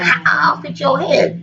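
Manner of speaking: mock raging threat, lightly voiced; mock rage. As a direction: growl like a raging goddess. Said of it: "like, in a rage right now".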